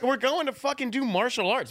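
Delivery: high-pitched, drawn-out exasperated protest; exasperated, slowed-down retort; retold exasperation. Retold exasperated reply to cop.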